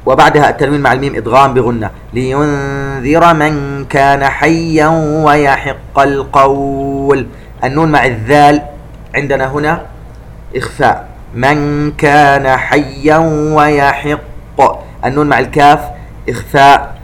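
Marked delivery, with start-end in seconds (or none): 2.1-7.3 slow, elongated tajweed chanting; Quran recitation. Shown as a demonstration. Recitation demo. 11.4-14.8 slow, elongated tajweed chanting; Quran recitation. Shown as a demonstration. Recitation demo.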